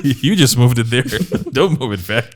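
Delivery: saying it through a laugh; half-laughing, amused repeat. Real, not acted. Laughing, repeating request to move it.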